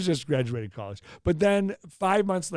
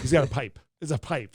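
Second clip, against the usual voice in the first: news director impression. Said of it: "Still a good impression".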